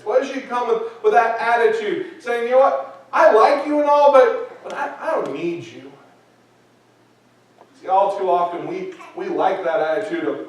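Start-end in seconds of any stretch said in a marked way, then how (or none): 2.4-5.9 arrogant. Retold or imitated. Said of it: "that air of arrogance".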